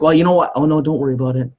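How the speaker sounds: high, loud fake breeziness that hides anger; passive-aggressive brush-off. To a partner, masking disappointment, mock passive-aggressive. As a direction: sound fine while plainly upset. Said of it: "get mad or disappointed in you".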